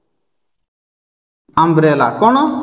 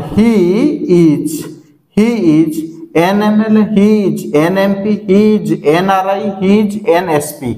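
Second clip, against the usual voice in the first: slow model sentences; slower than usual. Shown as a demonstration. Teacher models example sentences with an.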